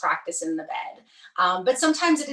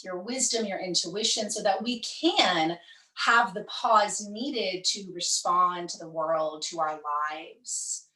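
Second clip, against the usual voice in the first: guided meditation. Real, not acted. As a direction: ease them into rest, stretching key words.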